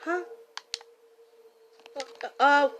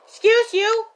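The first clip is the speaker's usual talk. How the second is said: offended; 5 semitones higher, 10 dB louder than usual. Acted. Mock offended at rude NPC.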